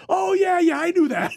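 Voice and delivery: high, loud mock cover-up; imitating flustered backpedal. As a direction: blurt a hasty, laughing save as the caught flirt. Flustered flirt covering his mistake.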